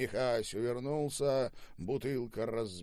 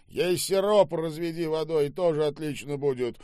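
raised, loud grumble; grumbling; 8 semitones higher, 6 dB louder than usual. A narrator's reading. Boss grumbles over his apple about her taste, grumbling. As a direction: grumble it out dismissively. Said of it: "проворчал Штаубе".

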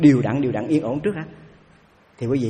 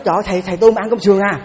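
retold outcry; 4 semitones higher, 5 dB louder, faster than usual. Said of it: "Nó la lên".

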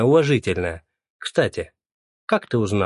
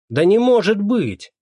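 much higher, louder, slower "может"; shocked gasp; 10 semitones higher, 6 dB louder, slower than usual. A narrator's reading. Neighbour hearing Motalo died, loud shocked disbelief. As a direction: cry out in disbelief.

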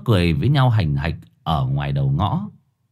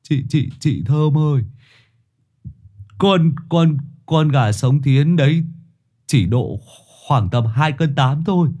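higher stammering babble; 5 semitones higher than usual. A narrator's reading. Boy Hải stammers to Thơm, higher and nervous. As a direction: trip over the words nervously. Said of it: "Thằng Hải lắp bắp".

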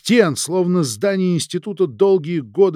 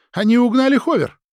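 high, loud indignant cry; alarmed shout; 10 semitones higher, 6 dB louder than usual. Acted. Maria discovers the stolen hover.

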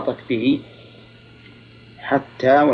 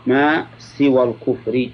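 slow reading with full case ending on الكفرِ; slow formal reading; much slower than usual. Shown as a demonstration. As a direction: draw out ما, voice the final i. Reads text formally, then restates.

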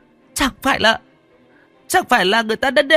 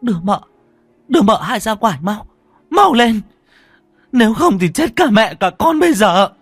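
high, loud, urgent order; angry; 12 semitones higher, 6 dB louder than usual. Acted. First wife demands second wife be rushed out, angrily. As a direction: yell furiously, building to a desperate warning. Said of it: "bà cả Hoa tức giận".

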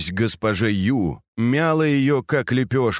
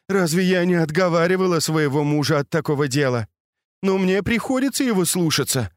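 tearful; 7 semitones higher than usual. A narrator's reading. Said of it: "заплакала госпожа Ю".

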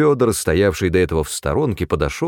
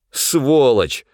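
higher, forceful curse; loud insult; 5 semitones higher than usual. A narrator's reading. Supply man cursing Pavel within earshot, loud. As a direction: say it loud enough to be overheard. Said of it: "громко сказал снабженец".

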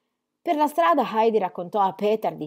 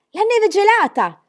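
much higher, louder burst of news; excited boy; 12 semitones higher, 9 dB louder than usual. A narrator's reading. Peter explaining to grandfather about the ice, excited outburst. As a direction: blurt it out thrilled. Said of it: "spiegò Peter".

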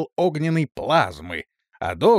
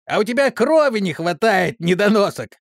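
high, loud, gloating yell; doctor gloating over his victim, high and loud; gleeful yell; 7 semitones higher, 4 dB louder than usual. A narrator's reading. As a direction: crow at him with glee. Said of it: "радостно завопил Док".

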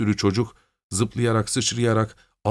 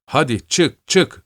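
louder, higher urging call; shouting, rising; 6 semitones higher, 4 dB louder, slower than usual. A narrator's reading. Stepan rattling the stick in the hole, yelling out. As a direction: rise and push the words out.

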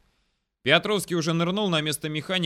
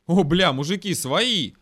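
loud, raised cry of recognition; relieved surprised shout; 5 semitones higher, 7 dB louder, slower than usual. A narrator's reading. Scout recognizing his comrades, surprised shouting. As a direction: exclaim on spotting your own side.

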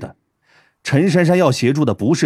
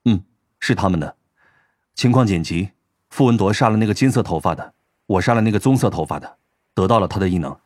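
slightly lowered male character voice, matter-of-fact; lightly voiced Tang Mo; 4 semitones lower than usual. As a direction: explain it briefly in a lower register. (略微压低的男声，平实地说明)

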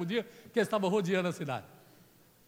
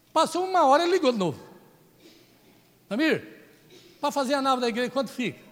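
excited retelling; 5 semitones higher, 9 dB louder than usual. Real, not acted. Excited retelling of donor's call.

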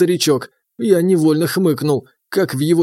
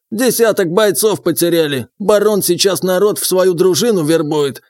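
higher, lightly voiced old man; old prospector; 3 semitones higher than usual. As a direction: tell it like a gossiping old-timer.

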